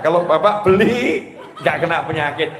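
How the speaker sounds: laughing punchline. Retold or imitated.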